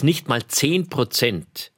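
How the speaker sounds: "zehn Prozent" drawn out slowly, weight on "zehn"; stress on zehn. Real, not acted. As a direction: stretch out "zehn Prozent" to let it sink in. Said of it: "auf der Zunge zergehen lassen". (Betonung auf „zehn“, langsam gedehnt)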